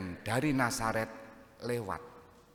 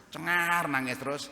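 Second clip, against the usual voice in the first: imitated baby wail; 7 semitones higher, 4 dB louder than usual. Priest describing a feverish baby crying nonstop, mock wail. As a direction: stretch the word like a crying baby.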